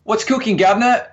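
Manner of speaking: Cockney greeting, hammed up; mock Cockney English accent. Twins greeting the camera in mock Cockney accent. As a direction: put on a cheeky London accent. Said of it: "our proper English accents on".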